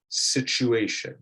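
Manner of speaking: situation said slowly, with a ch sound; model word. Shown as a demonstration. Teacher models the ch in situation. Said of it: "a C H sound rather than an S H sound".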